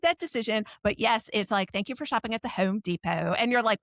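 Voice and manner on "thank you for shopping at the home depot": imitated Delco self-checkout voice; lightly mock a Delco store recording; Delco accent. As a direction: Delco accent on a canned thank-you. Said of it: "has the Delco accent".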